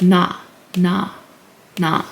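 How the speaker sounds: "na" as N joined to an open ah; demonstrated syllable. Shown as a demonstration. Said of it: "So combined together, it's like".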